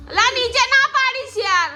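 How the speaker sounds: mother yelling at her son not to drop things; scolding shout. Real, not acted. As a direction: stop them knocking things down. Mother scolding kids at play.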